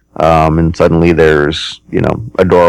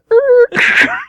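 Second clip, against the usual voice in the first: high creak and crash of a falling door; imitated door noise. Game master shows how the door falls, imitated noise. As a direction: mouth the sound of the door going over. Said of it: "It, it, it does the".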